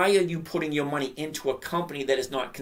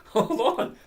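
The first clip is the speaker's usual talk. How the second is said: can't stop laughing at the yield; 7 semitones higher than usual. Real, not acted. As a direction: hold on, broken by real laughter. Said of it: "I can't stop laughing".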